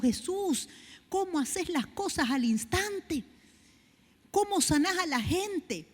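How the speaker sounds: awed wonder. Retold or imitated. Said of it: "Y yo digo".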